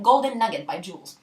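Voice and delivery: low, soft title-card announcement; on-screen caption voice. Pretend. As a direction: announce it low like a brand slogan. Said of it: "Il faudrait qu'en haut de l'écran". (voix grave de slogan publicitaire)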